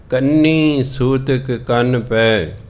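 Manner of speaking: drawn-out scripture chant, slow; slow scripture recitation. Shown as a demonstration. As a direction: intone the verse slowly, word by word. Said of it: "recites scripture slowly". (ਗੁਰਬਾਣੀ ਦਾ ਹੌਲੀ ਹੌਲੀ ਪਾਠ)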